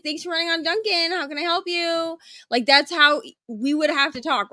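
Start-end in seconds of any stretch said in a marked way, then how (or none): 0.0-2.2 slightly higher service greeting; mild headset voice; Dunkin' greeting. Retold or imitated. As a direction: chirp the headset welcome. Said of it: "beep in your ear and be like".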